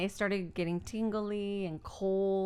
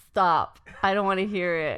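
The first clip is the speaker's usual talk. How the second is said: Ivan; 5 dB louder than usual. Retold or imitated. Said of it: "and Ivan's just like".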